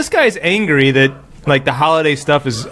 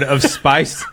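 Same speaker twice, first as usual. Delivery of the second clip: slow reading; slower than usual. Acted. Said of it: "Going slow".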